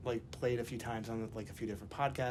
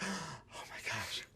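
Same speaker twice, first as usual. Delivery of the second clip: starstruck gasp; 4 semitones higher, 7 dB quieter, much slower than usual. Retold or imitated.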